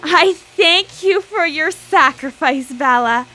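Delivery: grand proclamation. Acted. Triumphant over the screaming victim.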